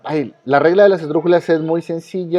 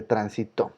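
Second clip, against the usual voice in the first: "transitó" stressed on the final syllable, tran-si-TÓ; acento agudo; 4 semitones lower, 8 dB quieter than usual. Shown as a demonstration. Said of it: "en la primera y en la última". ("transitó" como palabra aguda, tran-si-TÓ)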